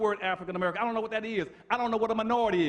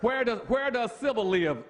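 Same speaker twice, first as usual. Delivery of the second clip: mock shout; 2 semitones higher than usual. Real, not acted. Preacher mocking the idea of civil rights. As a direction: demand it mockingly. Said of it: "preaching mockery, loud".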